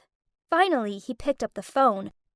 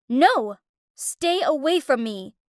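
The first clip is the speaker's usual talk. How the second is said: yelling. Acted. Haley yelling at a stranger grabbing her, a mild yell. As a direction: push them off with your voice. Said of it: "I yelled at them".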